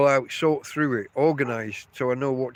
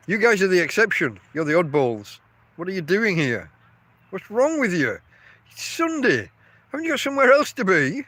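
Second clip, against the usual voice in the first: rising higher, mock-incredulous ribbing of the viewers; playful teasing; 4 semitones higher, 3 dB louder than usual. Real, not acted. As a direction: tease them like oddball friends, climbing higher and faster at the end. Teasing viewers for watching on Sunday.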